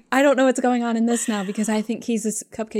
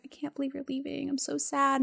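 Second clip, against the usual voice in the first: higher, softer imitated lament; mock sad friends; 6 semitones higher, 6 dB quieter than usual. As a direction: imitate friends sweetly sorry to see someone go. Friends lamenting her leaving.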